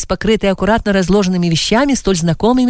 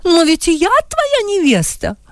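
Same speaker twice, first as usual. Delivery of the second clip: higher indignant exclamation; exclaiming lady; 11 semitones higher than usual. A narrator's reading. Mrs Einer protesting to Adam, a higher indignant exclamation. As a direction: cry out your claim, offended. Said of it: "воскликнула госпожа Эйнер".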